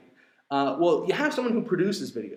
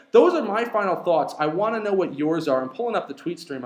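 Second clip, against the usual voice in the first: breathless after talking long; slightly winded, catching breath; 2 semitones higher, 5 dB louder than usual. Real, not acted. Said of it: "I'm trying to catch my breath".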